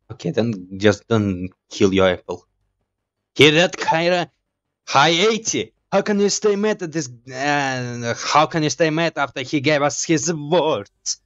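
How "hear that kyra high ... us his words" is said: high, fond cooing. Pretend. Gamer gushing to Kyra over the cute bot, high cooing. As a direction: gush over the cute one.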